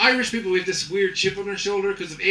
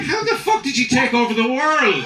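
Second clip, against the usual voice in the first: higher, louder baffled rant; mock exasperation; exasperated; 6 semitones higher, 5 dB louder than usual. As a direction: demand an answer in disbelief. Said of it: "I was like".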